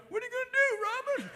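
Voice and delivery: high Boston heckle; a local yelling at Robin; Boston accent. Retold or imitated. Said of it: "People are going".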